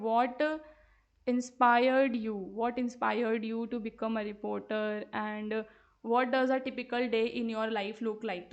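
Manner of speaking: very slow, drawn-out words; slow dictation. Shown as a demonstration. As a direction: dictate the question for copying. Teacher dictates sample question.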